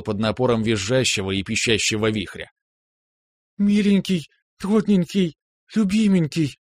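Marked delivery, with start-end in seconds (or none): 3.6-6.6 put-on high, girlish, gushing endearments; little sister's gush. A narrator's reading. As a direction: squeal them like a happy little sister. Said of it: "бормотала сестрёнка". (сестрёнка восторженно лепечет высоким голосом)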